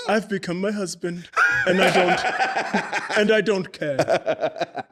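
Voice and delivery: laughing. Real, not acted. Laughing while retelling text.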